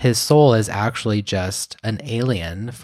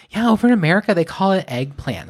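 British baker; 9 semitones higher, faster than usual. Retold or imitated. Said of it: "she was like".

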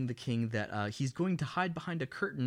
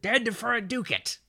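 high, loud stage shout with ducat said "DOO-kit"; mock yell; 10 semitones higher, 6 dB louder than usual. Correcting how Hamlet yells it at the curtain, hammed-up yell. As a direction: yell it hammily, reducing the end of "ducat" to "-kit". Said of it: "I think he pronounces it".

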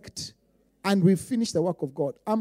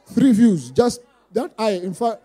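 laughing shout; 9 dB louder, slower than usual. Real, not acted. Mocking his tiny Facebook audience.

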